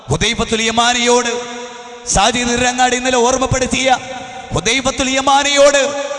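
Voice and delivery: sustained, ringing pulpit lament; fervent preaching. Real, not acted. Preacher telling of companions who wept when dying, fervent preaching. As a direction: keep each phrase pushed up and forceful.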